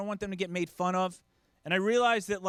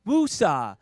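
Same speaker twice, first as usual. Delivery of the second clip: calming mantra; 7 dB louder, much slower than usual. Retold or imitated. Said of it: "rub my ears and say".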